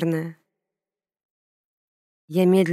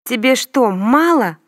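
high, louder squeak, not her own voice; 4 semitones higher, 5 dB louder than usual. A narrator's reading. Scared girl squeaking at the bully, high. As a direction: squeak it out in fright. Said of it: "пропищала я совсем не своим голосом".

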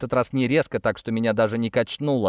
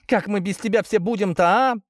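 desperate plea; 8 semitones higher than usual. A narrator's reading. Lika begs dying man.

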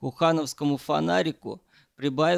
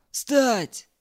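high, sharp barked orders; barked commands; 6 semitones higher than usual. A narrator's reading. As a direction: bark the commands like a drill sergeant. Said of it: "рявкнул".

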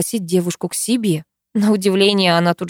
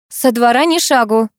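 firm call, louder and higher; shouting at the boys; 5 semitones higher, 4 dB louder than usual. Acted. Mother shouts an order to her sons, firm and loud. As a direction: call the boys sharply from the doorway. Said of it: "крикнула мальчишкам".

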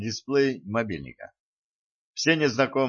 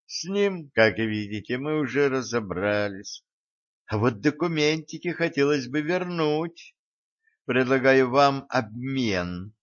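insinuating murmur; 3 semitones higher than usual. Acted. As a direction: let it murmur sweetly. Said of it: "продолжал вкрадчиво журчать". (вкрадчиво журчит в трубку)

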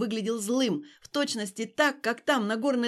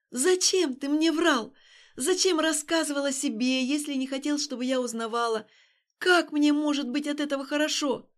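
upset questioning; 4 semitones higher, 3 dB louder than usual. Acted. Alina confronting Stas.

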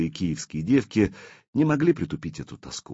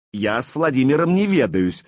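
louder, higher retort; raised voice; 6 semitones higher, 5 dB louder than usual. A narrator's reading. Блуд denies dealings with Владимир, raising his voice. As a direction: raise your voice in protest. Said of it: "повысил голос Блуд".

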